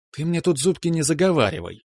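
a hint of a stern wife teasing her husband; mock sternness. A narrator's reading. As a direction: pretend to scold him. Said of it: "изобразила строгость".

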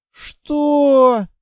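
high startled what; a loud stunned gasp of a question; shocked, high and loud. Acted. Husband shocked at wife's request.

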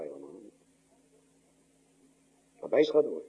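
ordinary talk, nothing marked

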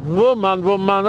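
Wuman repeated with a V at the start; "Wuman" said with a leading V; Russian-style pronunciation. Shown as a demonstration. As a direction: stress the V that opens each "Wuman". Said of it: "der russische Song Wuman".

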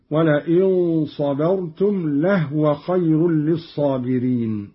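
لهو as "lahwa", no vowel on the ha; silent-vowel ha. Shown as a demonstration. Teacher giving a further example, لهو with sukun on ha. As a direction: recite لهو with the h joined straight to wa. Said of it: "وكذا قوله تعالى".

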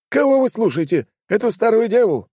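high and loud, outraged; indignant outburst. A narrator's reading. Baron indignant at the police, loud and outraged. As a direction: scoff at the officers in anger. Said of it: "возмутился он".

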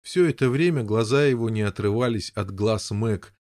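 ordinary delivery, nothing marked

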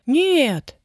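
a light protest. A narrator's reading. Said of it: "запротестовала она". (протестуя, повыше)

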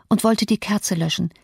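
plain reading voice

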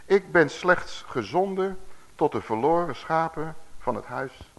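slow, solemn Bible reading; scripture reading. A narrator's reading. Preacher reading Jesus' answer to the congregation, slow and solemn. Reads the Bible verse aloud.

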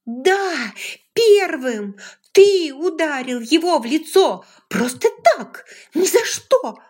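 put-on a furious young woman screams accusations; furious shout. A narrator's reading.

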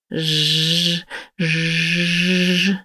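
mocking buzz. She mocks the buzzing bees.

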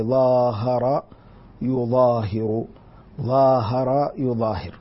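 ظاهر and يظاهر said slowly, stretching the alif after ظ; verb form demo. Shown as a demonstration. Teacher slowly sounds out ظاهر يظاهر. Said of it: "من الماضي الرباعي".

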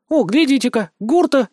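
sudden high exclamation, pointing someone out; a healer spotting someone across the clearing, exclaiming; exclaimed. A narrator's reading. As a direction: call out in surprise, voice jumping up. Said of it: "вдруг воскликнула".

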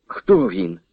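ordinary delivery

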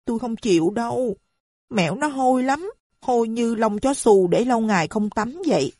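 put-on a child pouting in refusal; young girl refusing her mother's new man; little girl's voice.

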